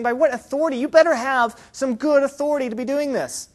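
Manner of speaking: demanding challenge. Acted. Leaders warn John he needs good authority, demanding. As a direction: demand that he justify himself.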